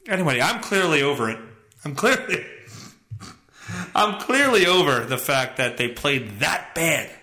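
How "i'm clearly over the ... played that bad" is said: usual speaking voice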